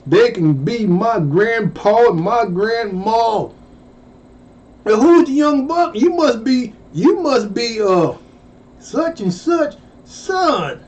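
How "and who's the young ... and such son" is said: put-on higher, puzzled old-timer voice; lightly voiced puzzled old classmate; classmates' confused greeting. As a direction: guess who he is, unsure. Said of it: "classmates greeting him".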